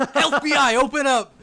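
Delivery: loud hammed-up cop shout; mock raid shout. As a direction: bang on the door and bellow.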